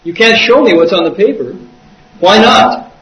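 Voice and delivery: imitated startled challenge. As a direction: throw it back in disbelief. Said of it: "he was startled".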